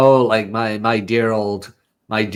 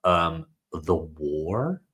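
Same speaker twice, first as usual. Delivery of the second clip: deadpan; 7 semitones lower, 8 dB quieter, much slower than usual. Retold or imitated. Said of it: "She's like".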